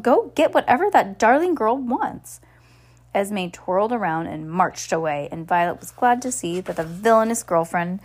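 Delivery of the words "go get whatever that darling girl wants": commanding. A narrator's reading. Esme ordering Violet.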